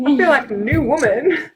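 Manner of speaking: high, bright exclamation; excited. Retold or imitated. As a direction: exclaim it like a revelation. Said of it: "I was like".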